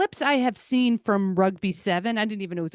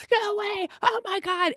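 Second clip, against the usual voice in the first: high excited gasp of disbelief; a stunned, delighted athlete reacting; surprised squeal; 13 semitones higher than usual. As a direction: squeal it like you can't believe the score. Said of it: "Simone Biles going".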